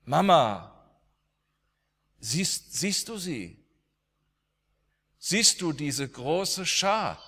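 a boy pointing at a vision, lightly voiced; awed dying boy. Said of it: "Und dann sagte er". (staunender sterbender Junge, leicht höher gesprochen)

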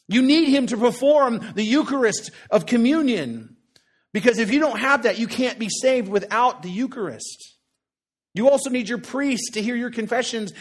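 preaching at full force. Acted. Preacher rails against church tradition before his congregation, loud.

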